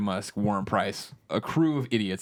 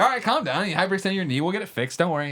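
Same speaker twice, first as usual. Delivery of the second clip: calming friend; 6 semitones higher, faster than usual. Retold or imitated. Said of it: "He's like".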